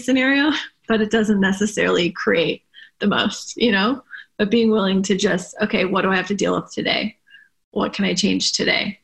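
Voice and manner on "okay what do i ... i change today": brisk practical self-talk. Shown as a demonstration. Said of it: "that's a really good question".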